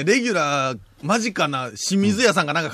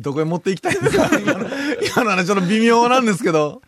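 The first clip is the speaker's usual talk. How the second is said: laughing. Real, not acted. Laughing at rambling host.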